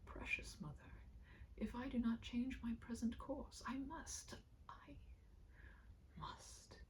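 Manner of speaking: whispered, breaking, the pitch jumping high on I must; voice cracking. Acted. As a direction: crack under the weight of it and push through. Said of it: "here his voice cracked".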